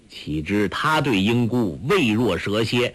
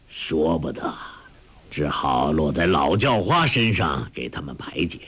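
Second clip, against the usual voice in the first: put-on low, easygoing old beggar voice; old beggar chief; 6 semitones lower than usual. A narrator's reading. Hong Qigong consoling Guo Jing, low old-beggar voice. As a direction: speak as the old beggar, lower and relaxed.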